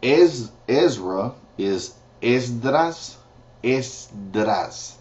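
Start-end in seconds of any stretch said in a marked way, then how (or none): 2.2-5.0 Esdras with Spanish s and tapped r; teacher modelling a hard name; Spanish pronunciation. Shown as a demonstration. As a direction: say Esdras carefully. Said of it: "That's kinda hard".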